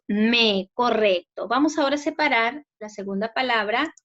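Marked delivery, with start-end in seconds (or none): 0.1-0.7 Me said loud, as the strong syllable; stressed syllable. Shown as a demonstration. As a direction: hit Me with extra force. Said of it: "la mayor fuerza de voz".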